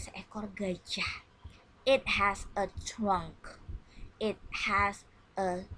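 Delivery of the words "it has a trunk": slow model reading. Shown as a demonstration. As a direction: read it slow for the class to copy. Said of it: "And you repeat my reading". (membaca "It has a trunk" pelan dan jelas sebagai contoh)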